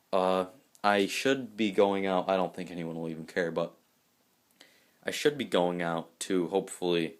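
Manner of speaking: talking around a lollipop; sucking a lollipop. Real, not acted. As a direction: mouth half full with a lollipop. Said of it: "sorry about the po-, po-, lollipop".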